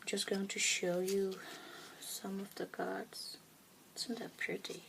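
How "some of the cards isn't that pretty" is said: whisper. Real, not acted. Whispering over tarot cards.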